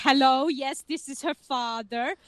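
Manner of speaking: put-on same deadpan German accent for the father. Father answering the door to players, German accent. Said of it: "her father opens the door".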